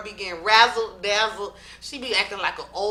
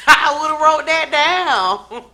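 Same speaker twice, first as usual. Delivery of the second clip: laughing insistence; 8 semitones higher, 11 dB louder, slower than usual. Real, not acted.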